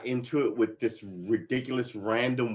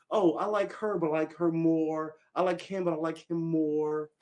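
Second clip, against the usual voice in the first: mock fickle voice; 5 semitones higher than usual. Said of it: "I don't have this ladder of".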